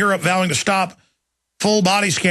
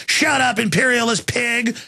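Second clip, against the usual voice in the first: mock yell; 6 semitones higher than usual. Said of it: "they just go".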